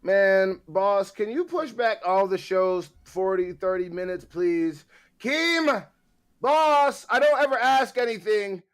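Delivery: high, loud mock plea to the boss; pleading. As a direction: call out and beg for a favour. Calls out to boss, begging a favour.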